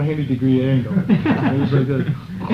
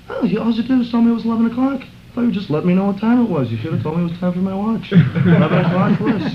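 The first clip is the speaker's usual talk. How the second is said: higher, quick mock-complaint; amused protest; 9 semitones higher, 3 dB louder than usual. Jayananda teasing the narrator about the wake-up, higher and quick. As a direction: tease him that he never said it was the watch. Friend protests he wasn't told.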